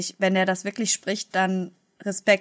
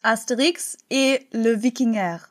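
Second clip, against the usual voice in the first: fake French; slower than usual. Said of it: "die Sprecherin auf Fake-Französisch".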